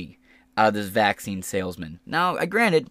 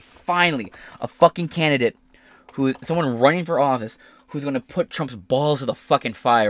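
excited; 3 semitones higher, 4 dB louder than usual. Retold or imitated. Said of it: "I'm like".

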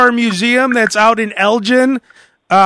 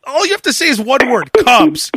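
each Hey called out higher, like eager radio callers; fired-up callers; 4 semitones higher than usual. Pretend. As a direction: rattle off caller intros, a bit higher. Rapid string of caller impressions.

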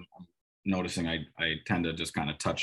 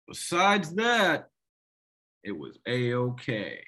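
drawn-out, much higher sarcastic singsong; mock dismissive; 4 semitones higher, much slower than usual. Mocking people who wave away the big play, slow sarcastic drawl. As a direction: sneer it slowly like a know-it-all.

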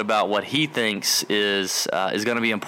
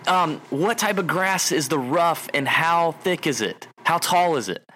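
slowed-down, over-careful question; slow caller; 4 semitones higher than usual. Retold or imitated. Caller asking the Spanish-speaking clerk, slowly. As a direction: spell it out slowly for a foreigner. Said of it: "really slow and really loud".

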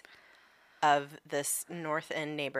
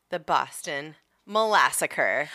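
says the name through a chuckle; amused, slow, half-laughing delivery. Real, not acted. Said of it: "what locals call it".

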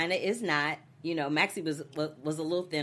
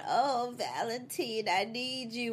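slow, whiny mock sob; mock crying plea; 7 semitones higher, slower than usual. Mocking a character crying to her husband, whiny. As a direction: ham up a weepy plea. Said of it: "crying and going".

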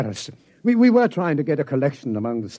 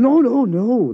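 emphatic; 7 semitones higher, 5 dB louder, slower than usual. Acted. Doctor correcting a misunderstanding.

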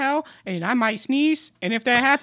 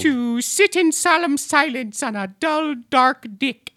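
slow, measured tongue twister; vocal warm-up recitation; slower than usual. Acted. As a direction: enunciate each word deliberately.

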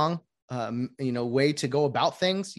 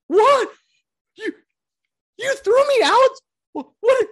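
very high, loud squeal of disbelief; whiny ejected hitter; 10 dB louder than usual. Retold or imitated. Ejected hitter protesting to umpire, loud high whine. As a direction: play the shocked player as a wronged kid. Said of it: "The hitter then goes".

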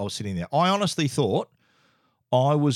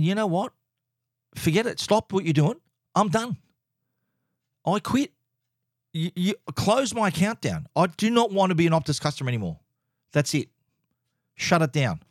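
higher, fed-up I-quit rant; exasperated outburst; 6 semitones higher than usual. Retold or imitated. Customer fed up at Optus store staff, pitched-up exasperated outburst. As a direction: blurt it out like you've hit your limit. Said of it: "that was my breaking point".

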